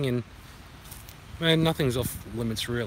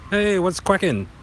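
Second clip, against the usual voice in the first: high, loud, drawn-out hello; playful loud duck hello; duck greeting; 7 semitones higher, 7 dB louder than usual. Acted. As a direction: greet another duck, pitched up and slow. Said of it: "Ducks pro-, probably greet each other saying".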